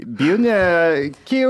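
mock Malmö dialect; playful attempt at Malmö speech; Malmö accent. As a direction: imitate Malmö vowels, amused. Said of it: "Båda pratar malmöitiska".

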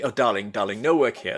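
light, breezy brush-off, darling and all; a hint of the chef waving him away; Jeremy Lee voice. Chef Jeremy Lee turning away a job seeker, lightly imitated, breezy. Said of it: "who still speaks like this".

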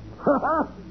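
short high gloating laugh; a sneering chuckle; mocking laugh. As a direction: laugh in his face. Villain mocks Nick's defeat.

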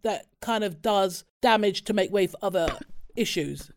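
coughing mid-sentence; words caught by a cough; choking on a drink. Real, not acted. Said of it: "Are you okay?".

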